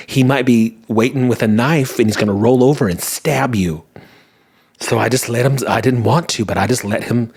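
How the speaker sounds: a hint of Southern aunt telling her tale; Southern accent. Aunt retelling Chicago story to family, lightly Southern accent. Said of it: "I gave her an accent that she didn't have".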